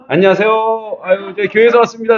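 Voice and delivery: high-pitched, effusive hello, acted out; sing-out courteous greeting; friendly greeting. Acting out deliberately friendly greetings.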